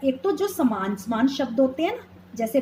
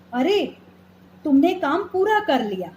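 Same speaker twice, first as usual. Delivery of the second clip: mock surprise; 2 semitones higher than usual. Shown as a demonstration. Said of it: "विस्मयादि बोधक शब्दों का प्रयोग".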